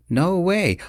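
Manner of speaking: pitched well up in disbelief; surprised. Acted. Friend spotting a celebrity at the table, surprised. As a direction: gasp out your disbelief. Greg recognizes the famous man.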